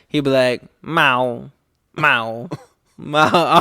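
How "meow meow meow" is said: drawn-out mock meow; imitated upset baby. Dad imitating his upset son, mewling. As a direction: imitate a fussy baby's meowing noise. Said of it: "when he's upset".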